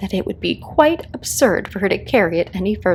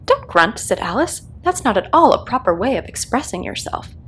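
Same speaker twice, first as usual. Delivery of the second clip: put-on young Alice, worried; 3 semitones higher than usual. A girl carrying a baby, afraid it will be killed, worried. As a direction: let her worry rise as she speaks. Alice voiced in read story.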